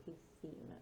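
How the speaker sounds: "piscina" with a TH sound for the SC. Shown as a demonstration. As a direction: say "piscina" as pees-THEE-na. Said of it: "it needs to sound like a T H".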